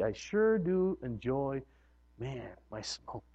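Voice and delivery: slow, low, soft relish; a lightly voiced contented smoker; savoring smokes. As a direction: linger on it like a drag. Acting smoker savoring cigarettes.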